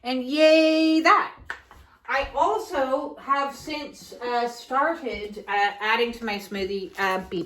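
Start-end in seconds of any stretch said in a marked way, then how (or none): 0.0-1.3 slow sung-out little yay; playful cheer. Acted. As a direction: draw it out in a higher, louder cheer. Mock cheer for her smoothie.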